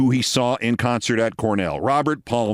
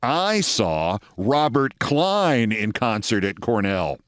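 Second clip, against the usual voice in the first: slow triumphant boast; 3 semitones lower, slower than usual. Retold or imitated. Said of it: "I can top both of you".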